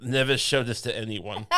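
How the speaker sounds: a hint of a creepy German filmmaker; half-hearted German accent imitation. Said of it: "in his creepy German accent".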